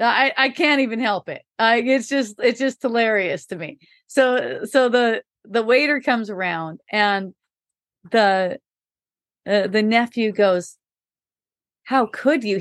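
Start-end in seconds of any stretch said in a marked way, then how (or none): 11.8-12.6 shocked, appalled, horrified cry. Retelling what a nephew said at a restaurant, imitating a horrified nephew. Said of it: "He's just horrified".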